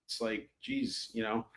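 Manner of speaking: yawning through the words, slow. Real, not acted. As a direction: drag it out mid-yawn. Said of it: "I'm yawning just thinking about it".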